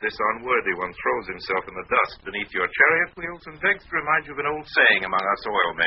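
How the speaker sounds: hammed-up courtly obeisance; mock humility. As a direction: needle a rival with flowery false deference. Parrots the vizier's flattery at rival.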